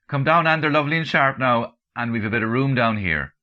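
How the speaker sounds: loud, high call from downstairs; shouting up the stairs. Acted. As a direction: call her down from another floor. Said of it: "he shouts up to me".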